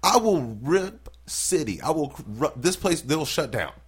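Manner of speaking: high, loud mock bravado; cocky outburst. Comedian reacting to his open-mic time slot, cocky outburst. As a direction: boast it big, drawing out the threat.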